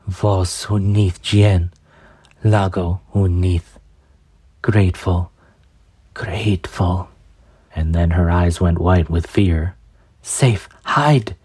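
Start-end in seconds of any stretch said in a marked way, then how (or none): 0.1-7.1 put-on weak grateful old woman. Dying old woman thanks. 10.2-11.3 frightened whispered whimper. Acted. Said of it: "she whimpered".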